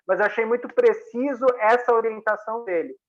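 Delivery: ordinary talk, nothing marked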